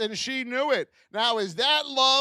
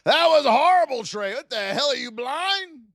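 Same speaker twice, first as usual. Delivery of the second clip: mock outrage; 4 semitones higher, 4 dB louder than usual. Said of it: "and I said".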